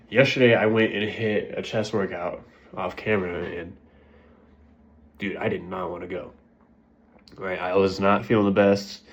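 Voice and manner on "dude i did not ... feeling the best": blocked nose; stuffy-nosed speech; congested. Real, not acted. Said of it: "I'm sure you can tell I'm a little congested".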